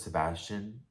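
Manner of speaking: soft, low imitation of him; quiet, controlled ultimatum; calm warning. Vlogger quoting the man warning Sebastian he will count, calmly. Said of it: "he just says really calmly".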